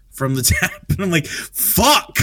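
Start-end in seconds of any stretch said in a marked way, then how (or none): 1.3-2.2 high yelped "Fuck!"; surprised curse. Retold or imitated. Telling friends about spitting in his beer, yelping in shock. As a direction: blurt it out as the spit lands in the beer.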